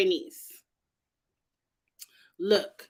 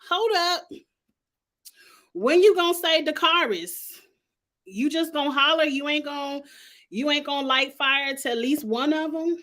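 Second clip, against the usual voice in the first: exasperated protest; 4 semitones higher than usual. Retold or imitated. Acting out protest at the character.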